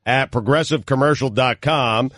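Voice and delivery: even, announcer-style read; radio sponsor read. Real, not acted. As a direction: read the sponsor copy on air.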